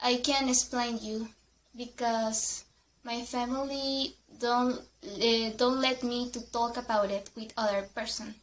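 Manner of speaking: imitating a sad friend; sad and quiet. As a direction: hold back, sadly quiet. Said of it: "She was so sad".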